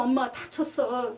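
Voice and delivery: slow, mildly tearful son imitation; retold crying. Son telling mother he got hurt, retold crying. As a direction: imitate a tearful child, drawn out. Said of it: "어, 울면서".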